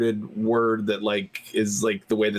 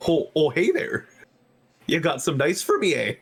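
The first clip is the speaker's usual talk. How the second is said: put-on higher-pitched, unconvincing Canadian accent; mock Canadian accent; 4 semitones higher than usual. Teasing a Canadian friend, botched Canadian accent. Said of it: "that was a Tullen accent. That wasn't even Canadian".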